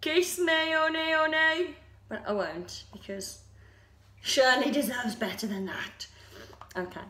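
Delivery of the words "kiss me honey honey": quick teasing line in a Rummy accent; half-joking Rummy accent demo. Shown as a demonstration. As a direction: toss off the title in a Rummy accent. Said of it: "I could do this one in the, uh, Rummy accent as well".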